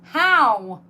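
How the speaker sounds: high, loud disbelieving cries; incredulous outcry. Real, not acted. Finding a hole in her sock, loud high disbelief. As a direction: wail at the absurd sock hole.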